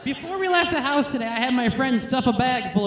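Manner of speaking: shouted burst. Real, not acted. Sudden loud outburst.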